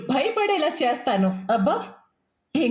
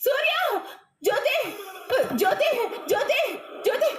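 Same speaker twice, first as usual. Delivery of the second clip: calling out; 10 semitones higher than usual. Acted. Calling family for help.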